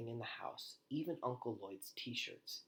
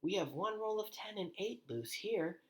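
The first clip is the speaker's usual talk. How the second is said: yelled from upstairs; 10 semitones higher than usual. A narrator's reading. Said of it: "yelled from upstairs".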